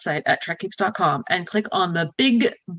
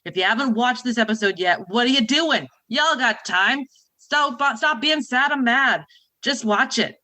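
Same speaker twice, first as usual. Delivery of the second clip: put-on Boston accent, half-serious; mock Boston accent. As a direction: keep the hammed-up Boston accent through the intro. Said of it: "if that was very Boston".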